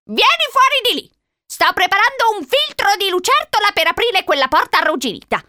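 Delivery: high, loud commanding cry; shouted threat. A narrator's reading. Old lady threatening Charlie outside the locked door, shouting. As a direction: yell it as an old witch making threats. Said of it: "gridò la vecchia signora".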